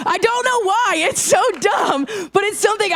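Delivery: put-on high, squeaky baby voice. Shown as a demonstration. Youth leader showing the group her baby voice. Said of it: "I talk like this all of the time".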